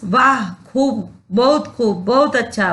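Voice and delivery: a teacher voicing mild joy; joyful exclamation. Shown as a demonstration. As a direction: savour the delight. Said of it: "हर्ष".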